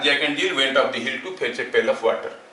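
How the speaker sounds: slow, deliberate nursery rhyme recitation, word by word; slow rhyme recital. Shown as a demonstration. Teacher to class, reciting the rhyme as a tongue-twister drill, slowly. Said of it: "Jack and जिल वाला tongue twister है".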